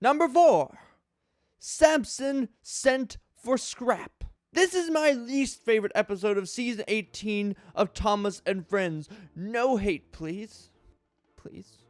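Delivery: dramatic reading. Acted. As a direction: grandly read review voice, mock-serious. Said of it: "a dramatic reading of this guy's review".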